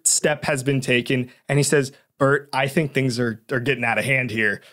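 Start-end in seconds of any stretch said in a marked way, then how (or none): 2.2-4.6 very calmly. Retold or imitated. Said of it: "He says it very calmly".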